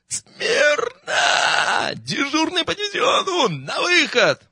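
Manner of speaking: отчаянный крик, намного выше обычного; гаркни команду срывающимся голосом; заорал не своим голосом. Acted. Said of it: "заорал я не своим голосом". (крик дневального не своим голосом)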